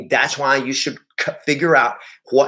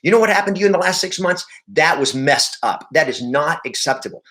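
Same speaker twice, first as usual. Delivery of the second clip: quick, raised outrage on the seller's behalf; indignant on their side; 3 semitones higher than usual. Shown as a demonstration. Agent siding with the upset seller, indignant. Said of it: "goes like".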